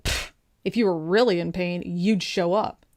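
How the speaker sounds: scoff, then doubt the patient pointedly; imitating a doctor with attitude; dismissive attitude. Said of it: "With that attitude".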